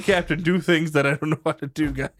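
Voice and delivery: loud, proud captain boast; loud bragging captain. Acted. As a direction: announce it like a smug captain.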